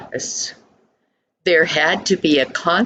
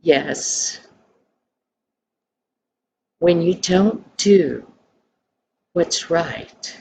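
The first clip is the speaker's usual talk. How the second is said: kindly father. A narrator's reading. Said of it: "looked at him kindly".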